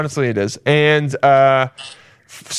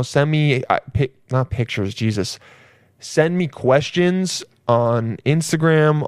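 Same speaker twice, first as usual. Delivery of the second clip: ordinary talk, nothing marked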